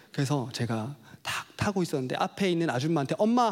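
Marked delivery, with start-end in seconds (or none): 3.2-3.5 calling mom. Retold or imitated. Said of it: "하고 탔습니다".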